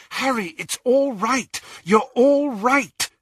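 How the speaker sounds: urgent reassurance. Acted. Friend trying to rouse a man from a nightmare, urgent. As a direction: call out to soothe, urgently.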